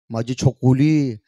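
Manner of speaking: loud, drawn-out mock endearment; imitating lovey-dovey baby talk; doting pet name. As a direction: stretch out the sweet nickname. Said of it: "काय लाडामध्ये".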